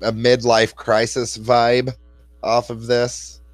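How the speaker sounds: slow, spelled-out repeat. Real, not acted. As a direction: repeat it slowly so they hear. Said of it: "A what?".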